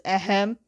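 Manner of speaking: acted "ahem" to interrupt; pointed throat-clearing. Katara interrupting Aang's introduction, pointedly. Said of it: "she just goes".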